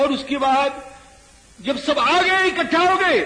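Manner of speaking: rising, high, loud narration; excited build-up. Real, not acted. Preacher builds up to the armies' gathering, rising excited voice. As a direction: climb steadily toward the battle climax.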